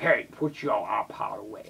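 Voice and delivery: hushed, whispered teacher scolding; a teacher hissing at him to stop; teacher telling off. Pretend. Imagined teacher telling him off, whispered scold. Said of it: "will be like".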